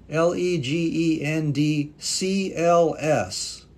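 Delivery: each letter said slowly and clearly; spelling it out slowly. Shown as a demonstration. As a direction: spell the name letter by letter for viewers. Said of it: "This is not, not an I".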